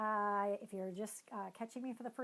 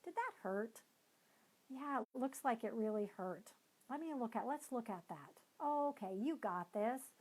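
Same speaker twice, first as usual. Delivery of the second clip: calm validating parent; 2 semitones higher than usual. Retold or imitated. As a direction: calmly comfort the child and encourage. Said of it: "walk over calmly".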